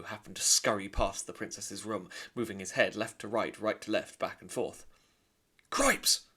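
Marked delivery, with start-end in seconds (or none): 5.7-6.3 very high, loud squeaky cry; a squeak of alarm; startled mouse. Acted. Furlough seeing the princess, squeaky alarm. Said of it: "said Furlough".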